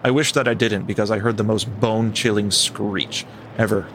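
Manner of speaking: measured first-person storytelling; story narration. A narrator's reading. Host reading a camper's story to co-host, measured narration. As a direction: read it like a campfire tale. Reads a camping story aloud.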